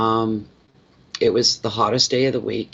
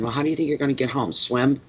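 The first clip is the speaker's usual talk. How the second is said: sarcastic inner voice; 3 semitones higher, faster than usual. Retold or imitated. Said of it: "the logical little side of my brain".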